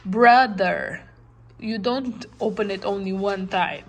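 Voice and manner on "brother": "Brother" said clearly in two beats; syllable demo. Shown as a demonstration. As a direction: open the mouth twice for "Brother". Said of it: "to say it".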